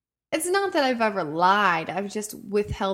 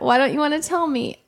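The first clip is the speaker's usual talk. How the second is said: mom pressing; 7 semitones higher, 6 dB louder, faster than usual. Retold or imitated. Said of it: "And she's like".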